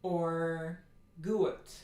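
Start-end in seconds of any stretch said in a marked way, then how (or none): 1.2-1.7 gut with the u gliding into a diphthong; diphthongized gut. Shown as a demonstration. Teacher demos the diphthongized mistake. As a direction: glide the u in gut like an American. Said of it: "That would be diphthongization".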